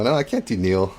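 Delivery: ordinary talk, nothing marked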